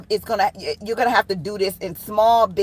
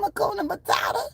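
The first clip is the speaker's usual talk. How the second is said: laughing name; 10 semitones higher, 6 dB quieter than usual. Real, not acted.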